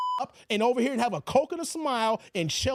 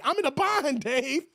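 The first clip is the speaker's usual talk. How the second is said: a hint of whine, less pushed; 3 semitones higher than usual. Broke friend asking Dave again, only lightly whiny. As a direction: toss it off as a lighter mock plea. Mimicking a begging viewer.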